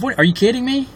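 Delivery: shrill disbelief, pitch jumps way up; can't believe what she hears; incredulous. Real, not acted. Incredulous at being called too involved.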